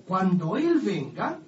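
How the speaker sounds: "Él" slowed and lifted, the whole phrase "Cuando Él venga" drawn out; stress on Él. Shown as a demonstration. Preacher stressing "Él" to show the Spirit is a person. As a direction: lean on "Él" to mark a person. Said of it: "tiene acento en la E".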